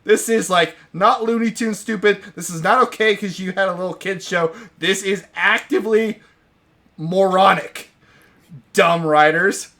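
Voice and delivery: dragging out so stupid, high and loud; furious disbelief. Retold or imitated. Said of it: "I was like".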